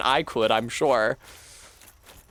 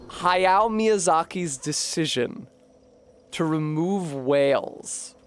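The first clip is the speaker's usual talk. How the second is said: mock gravity; slower than usual. Mock-solemn pronouncement.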